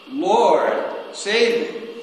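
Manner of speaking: high, loud plea; echoing the sinking man's cry; cried out again. A narrator's reading. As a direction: cry out for rescue. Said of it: "cried out".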